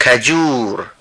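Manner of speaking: کجور said carefully as the Hindi word; teacher models the Hindi sound of کجور; Hindi pronunciation demo. Shown as a demonstration. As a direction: present کجور clearly to the class. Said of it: "ملاحظه بفرمایید تلفظ کجور است".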